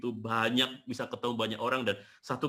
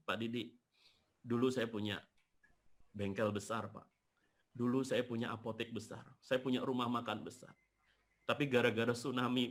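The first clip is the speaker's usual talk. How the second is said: soft, halting retold lament; retold tearful confession; 5 dB quieter than usual. Survivor telling the speaker of the tsunami, retold sorrowful confession. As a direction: relay his losses quietly, with a touch of sorrow. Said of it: "Saya lihat beliau sambil nangis".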